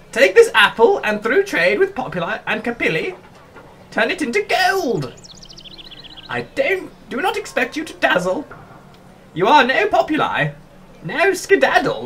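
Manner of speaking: high, haughty, condescending game-character voice. Streaming a game, voicing a character who sets a trading challenge; Papyrus-like voice. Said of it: "Why do I make him sound like Papyrus?".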